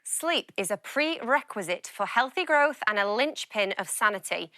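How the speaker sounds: lightly posh, formal reading; a hint of a grand posh reader. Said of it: "My posh voice".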